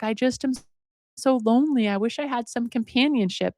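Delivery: lightly acted wistful complaint; sad. Old man sitting alone by apple tree, mock sad. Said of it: "he's sad".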